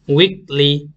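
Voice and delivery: উইকলি with উইক strong and লি lighter; first-syllable stress. Shown as a demonstration. Teacher models an adverb, first-syllable stress. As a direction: punch the start of উইকলি. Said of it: "first সিলেবলে stress করব".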